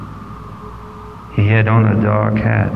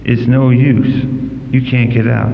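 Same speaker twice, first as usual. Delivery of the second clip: low husky voice. Acted. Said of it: "said in a low, husky voice".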